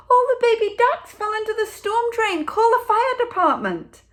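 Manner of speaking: high, loud and urgent calling out; a panicked passer-by calling for the fire brigade; frantic woman. A narrator's reading. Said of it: "the woman cried".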